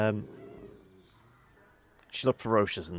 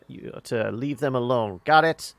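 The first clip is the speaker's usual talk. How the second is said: threatening order; 3 semitones higher, 5 dB louder than usual. Acted.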